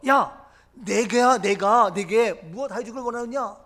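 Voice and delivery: Jesus asking openly. Acted. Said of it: "보란 듯이 묻는 거예요".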